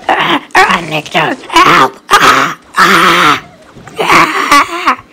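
high, loud panicked screams; screaming for help. Shown as a demonstration. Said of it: "That's how I scream, but not really".

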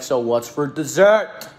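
slow, hammed-up bad British accent; a clumsy fake British chef accent, drawn out; bad Gordon Ramsay British accent. Quoting the chef asking about dessert, in a terrible British accent. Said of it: "That was a horrible accent".

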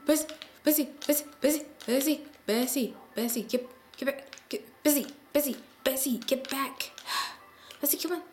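loud, high calls to the cow; urgent shouts of a name; frantic calling. Real, not acted. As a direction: call the runaway cow back urgently. Calling escaping cow Bessie.

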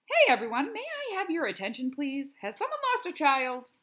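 a sneering fake public announcement; mocking announcement. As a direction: boom it out to tease the short kid. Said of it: "He's making fun of Jordan".

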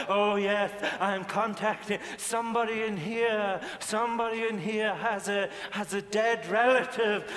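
John Edwards. Acted. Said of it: "He's like that".

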